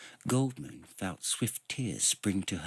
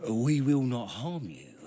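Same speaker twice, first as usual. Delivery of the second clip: louder, higher bluster; bluffing; 4 semitones higher, 5 dB louder than usual. A narrator's reading. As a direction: fake confidence into the dark. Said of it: "bluffed Karaman".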